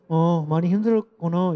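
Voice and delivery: sympathetic demo. Shown as a demonstration. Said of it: "이렇게 하죠, 이렇게".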